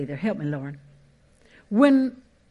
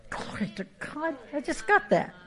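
ordinary delivery

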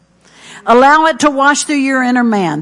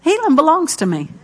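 spoken confession. Shown as a demonstration. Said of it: "you just go right along".

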